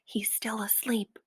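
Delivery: hushed, voiceless whisper. A narrator's reading. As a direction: keep it secret from the sleeping giant. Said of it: "the B F G whispered".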